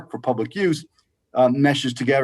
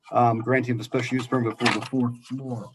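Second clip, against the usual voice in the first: underwater. Real, not acted. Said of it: "it sounds like you're underwater".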